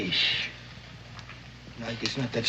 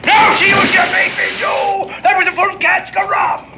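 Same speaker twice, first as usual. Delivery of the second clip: put-on fury; 4 dB louder than usual. Sailor fakes rage over spilled rum.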